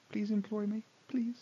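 whispered mock plea. Real, not acted. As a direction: whisper it, begging for a job. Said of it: "whispered plea aside".

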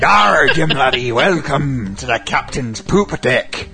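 slow, hammy pirate drawl. Pretend. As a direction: lay on the pirate captain. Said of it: "horny pirate".

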